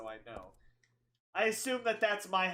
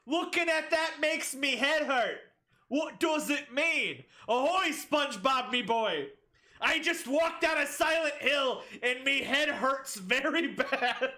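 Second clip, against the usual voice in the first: pirate voice; 4 semitones higher than usual. Pretend. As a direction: ham it up like a pirate. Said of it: "is she talking like a pirate".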